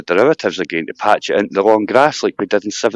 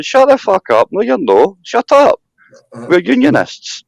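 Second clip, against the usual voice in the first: high mock voice, much higher; mocking Sarah; 10 semitones higher, slower than usual. Mocking Sarah shutting down independence talk, high mock voice. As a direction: squeak it out like a bossy politician.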